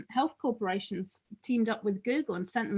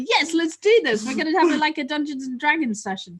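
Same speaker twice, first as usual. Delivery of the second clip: excited, louder mock-kid agreement; eager kids; 4 semitones higher, 4 dB louder than usual. Kids all on board for the game, excited. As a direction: chime in keenly, pitched up and loud.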